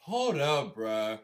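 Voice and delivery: normal talking voice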